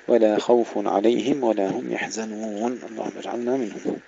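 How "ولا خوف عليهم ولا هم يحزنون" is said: recited "ولا خوف" with thin لا, full خ; light lam, heavy kha. Shown as a demonstration. Teacher recites the verse ending correctly, light lam. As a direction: chant it with "لا" light and خ thick. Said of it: "نرقق اللام ونفخم الخاء".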